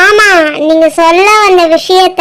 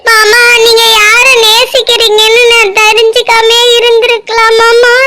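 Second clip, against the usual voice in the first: tearful, pained lament; mildly sobbing confession of hurt, sinking into an apology; crying. Acted. Girl tells uncle that knowing hurts, crying. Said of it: "ஏன் அழுகுற?".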